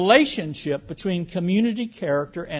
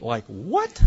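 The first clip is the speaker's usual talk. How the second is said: a baffled "what?" that breaks into a laugh; disbelieving laugh; 6 semitones lower than usual. Real, not acted. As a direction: laugh at the absurdity. Reacts to an absurd argument.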